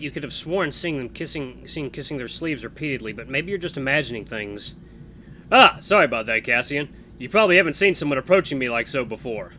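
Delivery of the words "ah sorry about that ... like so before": lightly voiced cheerful guy; easygoing buddy, upbeat; friendly young man. Voices Max in game.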